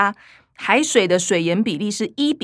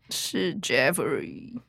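whispered awe; 8 semitones lower, 9 dB quieter, much slower than usual. Acted. Recognizing the taste together.

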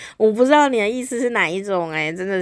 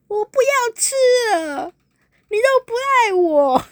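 much higher, tearful wail; mock crying; 14 semitones higher, 4 dB louder, slower than usual. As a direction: sob it out like a spoiled girlfriend. Girlfriend sulks, refuses dinner.

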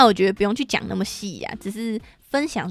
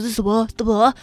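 put-on nervous kid; 4 dB louder than usual. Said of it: "那我弟很紧张说".

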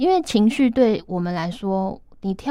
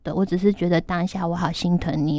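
gentle apology to daughter. Retold or imitated. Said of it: "我就说".

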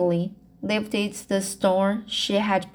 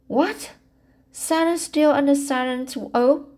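higher, lightly mocking quote; teasing; 5 semitones higher than usual. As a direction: tease her friend with a playful line. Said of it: "she quoted teasingly".

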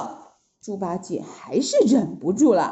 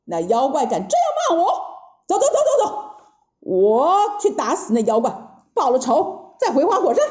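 shouting in anger; 3 semitones higher, faster than usual. Acted. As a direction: yell it, itching to fight. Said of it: "大叫一声". (孙悟空气得大叫)

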